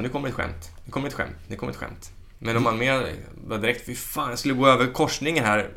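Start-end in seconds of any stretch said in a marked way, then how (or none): 0.0-2.1 tyst tanke. Retold or imitated. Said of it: "då tänker folk så här".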